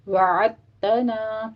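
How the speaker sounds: slow, drawn-out وَعَدْتَنَا with the dal merged into the ta, no echo; tajweed demo. Shown as a demonstration. Teacher showing students how to recite وَعَدْتَنَا, slow merged dal. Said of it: "اب آپ نے پڑھنا ہے".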